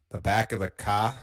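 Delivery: "car" with no R, an open "cah"; Boston-accent "car", ending on a long ah; Boston dropped R. Shown as a demonstration. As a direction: drop the R in "car", Boston style. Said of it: "car is a really easy word to do".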